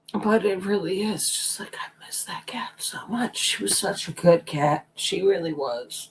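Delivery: hushed, sorrowful, breathy near-whispered voice. Speaker tells listeners how much the lost cat is missed, sad. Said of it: "I'm sad".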